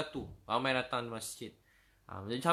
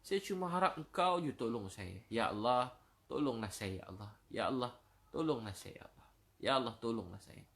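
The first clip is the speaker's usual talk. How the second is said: pleading prayer; 2 semitones lower, 3 dB quieter than usual. Acted. Sinner begs God, weeping.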